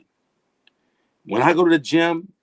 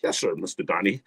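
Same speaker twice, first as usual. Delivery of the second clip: overly servile; 7 semitones lower, 5 dB quieter than usual. Retold or imitated. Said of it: "you ain't gotta talk like".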